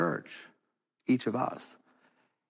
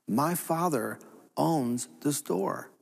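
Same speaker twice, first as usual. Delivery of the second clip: slow, serene realization; much slower than usual. Acted. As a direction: let it sink in, very slowly. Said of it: "realize, "Wait a minute".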